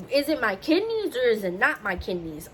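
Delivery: exasperated, emphatic retold question; confused. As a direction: press for a straight answer. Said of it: "I was just so confused".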